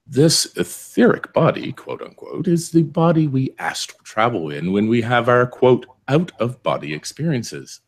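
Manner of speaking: put-on theatrical reading in a thick Canadian accent. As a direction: read it like a stage actor with a heavy Canadian accent. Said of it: "put on a really thick Canadian accent".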